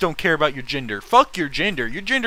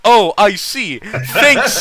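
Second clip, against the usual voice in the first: snarky comeback; 5 semitones higher, 7 dB louder, much slower than usual. Retold or imitated. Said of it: "Notch goes".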